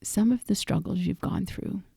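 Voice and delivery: unhurried guiding voice with long pauses; guided meditation. Acted. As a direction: lead listeners through reflection, pausing after each phrase. Leads a reflective guided meditation.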